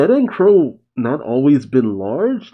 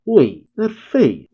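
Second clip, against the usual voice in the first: slow recognition; 9 semitones higher, slower than usual. Acted. Crow recognizes her face.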